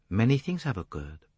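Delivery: put-on lightly accented detective voice; Poirot, measured. Detective hints at what changed since then, measured accented voice. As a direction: state it as a measured observation.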